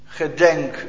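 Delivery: soft whispered psalm prayer; sighing whisper. Retold or imitated. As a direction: sigh the plea to God. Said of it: "Zo zucht hij".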